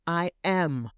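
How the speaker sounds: a firm, proud "I am"; with your chest. Shown as a demonstration. Coach shows the right way, a bold chest-voiced "I am". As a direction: plant "I am" like a declaration. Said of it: "Say it with your chest".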